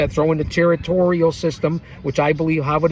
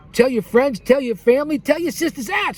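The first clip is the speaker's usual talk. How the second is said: rising higher with each tell; building excitement; 8 semitones higher than usual. Acted. Host urging viewers to spread the word, building up. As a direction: climb in pitch with each one.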